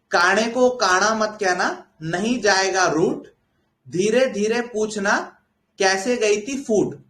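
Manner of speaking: slow, measured couplet; slow rhyme with pauses between halves; proverb recitation. Shown as a demonstration. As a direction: recite the saying line by line, unhurried.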